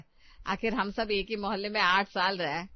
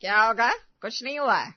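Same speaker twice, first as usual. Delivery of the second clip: loud, domineering orders; bossy commanding; 6 dB louder than usual. Acted. Mother-in-law ordering her daughter-in-law in front of friends, loudly domineering. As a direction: boss her around to show off your authority. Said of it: "ساس کی آواز میں الگ سی آہٹ ہے، جس سے وہ ریٹا کو ڈرانے کی کوشش کر رہی تھی".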